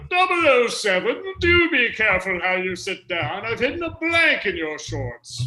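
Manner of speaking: loud, high, hammed-up British voice; played-up British accent. Host repeats the line for a fan of the voice, exaggerated British accent. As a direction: lay the British accent on thicker. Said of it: "play it up even more that time".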